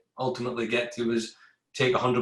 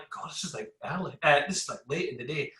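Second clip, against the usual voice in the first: muttering to himself; 6 dB quieter, faster than usual. Retold or imitated. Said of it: "and I'm like".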